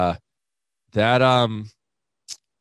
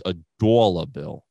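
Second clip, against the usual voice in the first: dollar bill with a mild imitated Boston vowel; Boston accent; 5 semitones lower than usual. Imitating his Boston coworker's dollar bill, mild Boston accent. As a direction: lightly mimic the Boston guy saying dollar bill. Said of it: "he says".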